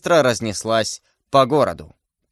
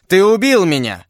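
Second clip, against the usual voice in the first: anguished cry; 5 semitones higher, 4 dB louder than usual. A narrator's reading. Stabbed duke accuses his attacker in an anguished cry. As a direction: cry out as if mortally wounded. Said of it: "кричал Бокингем".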